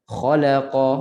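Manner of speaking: "khalaqa" with la cut to half a beat; hurried la. Shown as a demonstration. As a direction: rush the middle la of "khalaqa". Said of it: "bukan la itu jadi setengah ataupun laju". ("khalaqa" dengan la setengah harakat)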